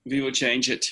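put-on light Austrian accent, the w said as a v; a mild Arnold impression with an Austrian accent; Austrian-accented, lightly imitating Arnold; Arnold Schwarzenegger voice. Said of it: "Arnold Schwarzenegger's voice, and goes".

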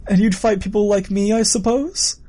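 amused villain. Acted. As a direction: needle them with a rising question.

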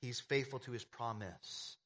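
slow, measured "promise" with no plural ending; "promise" delivered slowly and deliberately, singular; stress on singular PROMISE. Shown as a demonstration. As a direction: spell out "promise" as just one. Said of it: "I'm emphasizing the singular".

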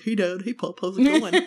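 lightly voiced dim little dog; dumb dachshund. Shown as a demonstration. Reading Howie to her son, lightly dumb little voice. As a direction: play an eager, dopey puppy. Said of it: "a dachshund named Howie who's really dumb".

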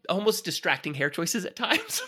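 cracking up mid-sentence; laughing. Real, not acted. Host amused by the wigs, laughing. Teasing the movie's hair choices.

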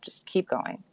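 hushed inner encouragement, softly imitated; lightly voiced inner guide, nearly whispered; soul voice. Inner voice repeats its advice, hushed soul voice. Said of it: "sort of like the divinely inspired voice".

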